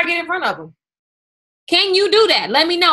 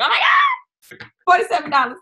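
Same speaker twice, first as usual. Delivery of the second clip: retold excited squeal; 5 semitones higher, 3 dB louder, much faster than usual. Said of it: "ran around my mom's house like".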